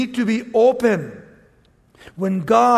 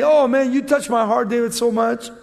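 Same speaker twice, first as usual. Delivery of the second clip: hammed-up fake sincerity; pretend heartfelt; 3 semitones higher, 5 dB louder than usual. Preacher mocks Saul faking being touched, hammed-up. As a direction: lay on the fake emotion. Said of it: "He's pretending".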